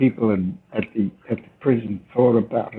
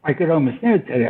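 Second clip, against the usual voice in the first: quick, lightly put-on English accent; a playful try at a southern English accent; hint of posh English accent; mock English accent; 3 semitones higher, faster than usual. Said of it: "Did I approximate a local accent".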